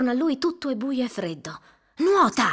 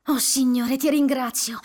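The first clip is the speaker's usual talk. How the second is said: louder relieved thanks; exclaiming; 4 semitones higher, 4 dB louder than usual. Acted. Seeing home, Douglas exclaims in relief. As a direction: cry out thanks to God.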